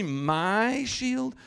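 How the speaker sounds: high, loud outraged echo with a long MY; furious demand. Acted. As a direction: throw MY back at the recruit angrily. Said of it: "he demanded furiously".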